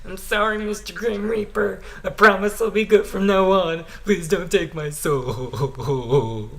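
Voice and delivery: pleading yell. Acted. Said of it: "Gumball yelled at the top of his lungs".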